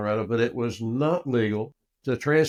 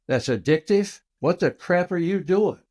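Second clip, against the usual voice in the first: retold indignant protest, higher pitch; indignant objection; 6 semitones higher, 5 dB louder than usual. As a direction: object in mock outrage as the pitch climbs. Retelling his refusal of the oil.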